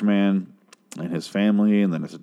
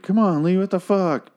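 higher-pitched imitating scold; mock exasperated; 11 semitones higher than usual. Colleague scolding drunk Lee for pissing on the map, in a higher mock-exasperated voice. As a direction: toss it off like a fed-up colleague.

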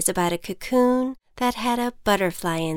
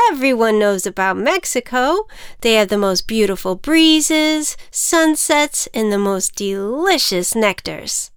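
ant voice; 2 semitones higher, 4 dB louder than usual. Acted. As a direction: sell her on Mexico. Ant character voice.

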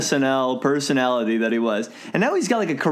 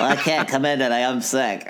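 put-on teen calling in sick. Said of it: "teenager calling out from work".

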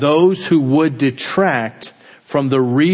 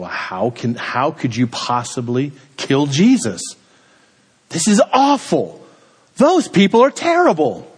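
put-on indignant child. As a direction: protest like an outraged young boy, climbing in pitch. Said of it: "I was so angry. I was so indignant".

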